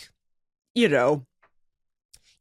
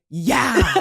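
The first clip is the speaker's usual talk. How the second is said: laughing imitation of a screaming fan; mildly screamed cheer through laughter; mock fan scream; 3 semitones higher than usual. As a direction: play at screaming for your hero. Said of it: "all up on Julio Rodriguez screaming".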